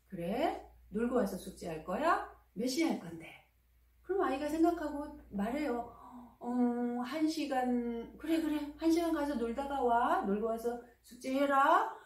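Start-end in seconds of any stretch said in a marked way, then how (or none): 0.1-3.3 easy, curious asking with no pressure; open calm question. Shown as a demonstration. Mother calmly asking her son when he'll do homework, easy and open. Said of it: "이렇게 말해보세요". 6.4-11.9 higher, bright willing yes; cheerful agreement. Shown as a demonstration. Mother gladly letting her son go play for an hour, cheerfully agreeing. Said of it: "흔쾌히 말해주-, 들어주시면 돼요".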